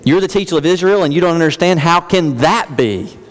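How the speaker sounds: fast, then a slowed disbelieving end; mild exasperated teacher; incredulous. Acted. Voicing Jesus' incredulous reply.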